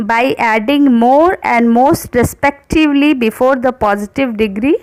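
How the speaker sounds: slow, careful rule reading; slow dictation voice. Acted. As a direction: read the rule out slowly for students to copy. Reads the rule aloud slowly.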